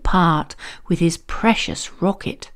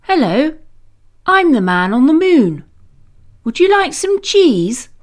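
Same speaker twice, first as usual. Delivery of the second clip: higher, cheerful moon man; friendly man on the moon; 6 semitones higher than usual. Acted. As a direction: greet him like a jolly stranger. Moon man greets James.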